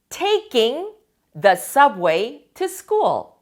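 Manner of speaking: taking the subway to school said very slowly and clearly; slow model phrase. Shown as a demonstration. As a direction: lay each word out slowly for learners. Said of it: "teacher models the question".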